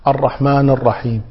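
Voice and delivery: الرحمن ending on a bare n; vowelless nun. Shown as a demonstration. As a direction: run الرحمن into الرحيم without the i. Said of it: "البعض يقرأها ساكنة".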